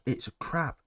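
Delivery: mock Gunther sulking over having no opponent; a hint of a grumpy ring general; Gunther impression. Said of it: "Gunther's there like".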